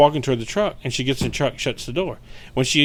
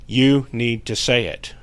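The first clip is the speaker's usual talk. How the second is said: forceful ghost; slower than usual. Retold or imitated. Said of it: "he gets really, like, forceful".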